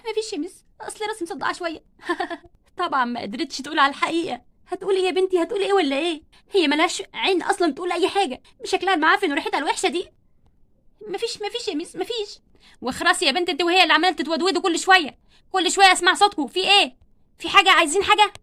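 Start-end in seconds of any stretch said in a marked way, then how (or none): 0.1-1.8 small voice, softer; crying girl telling teacher she has a headache, softly; quiet. Acted. Barbie hides tears from teacher. 11.1-12.4 softer, higher small voice; quiet. Acted. Barbie hides tears from teacher. 12.8-18.3 loud scolding; teacher shouting down whispering girls; angry teacher. Acted. Teacher silences chattering girls.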